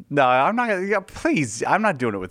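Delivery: loud, high laughing protest; laughing loud refusal. Real, not acted. Host refuses his co-host's accent request, loud and laughing. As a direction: squeal a laughing no to your co-host.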